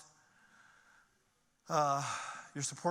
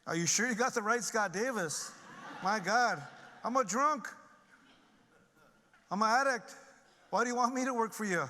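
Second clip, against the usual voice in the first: raised, incredulous self-quote; retelling his shocked reaction, higher and louder; disbelieving outburst; 6 semitones higher, 4 dB louder than usual. Retold or imitated. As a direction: ask it in stunned disbelief. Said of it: "I'm like".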